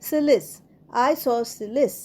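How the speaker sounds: সিলিস with a plain S, then the whole isosceles; silent C. Shown as a demonstration. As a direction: model isosceles as "eye-so-silis", no K. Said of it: "সি উচ্চারণটা না হয়ে সেটা হবে".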